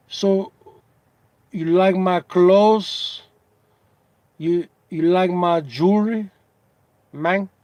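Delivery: lightly imitated Cuban Spanish accent; Razor Ramon. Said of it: "he would talk like that".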